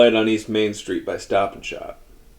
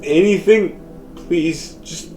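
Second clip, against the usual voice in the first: higher, rushed, begging breathlessly; desperate pleading; 6 semitones higher than usual. Acted. Man in car begging the voice for a sign, desperate. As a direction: plead like he's about to break.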